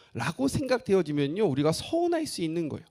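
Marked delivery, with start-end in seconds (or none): none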